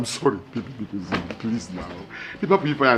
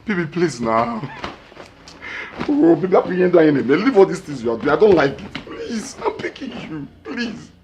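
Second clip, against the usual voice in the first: softer and lower begging, down to near-whispers; fading plea; 4 semitones lower, 5 dB quieter than usual. Acted. Husband begging his wife, fading into whispered apologies. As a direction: plead until the voice almost disappears.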